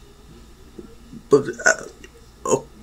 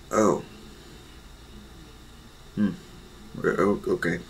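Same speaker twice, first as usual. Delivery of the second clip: much softer, dejected acceptance; quietly let down; 5 semitones lower, 15 dB quieter than usual. Acted. Izuku accepting his mother's refusal, softly let down. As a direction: swallow the disappointment quietly.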